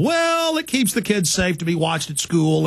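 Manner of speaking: a lightly voiced, smug media spokesman; mock dismissive officials. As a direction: play it down like it's no big deal. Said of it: "reporting it like it's not that big of a deal".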